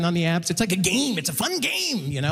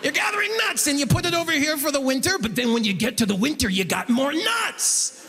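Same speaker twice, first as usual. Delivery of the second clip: mock banker explainer, starting high; put-on banker voice, drawing out the last words; banker's patronizing voice; 4 semitones higher than usual. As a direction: imitate a banker spelling it out like a children's tale. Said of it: "that's the voice he's using too".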